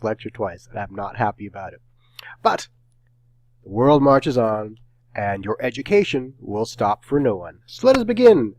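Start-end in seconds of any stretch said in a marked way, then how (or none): 2.4-8.6 louder, rising theatrical call to begin; mock-grand proclamation. Grand opening of the lecture.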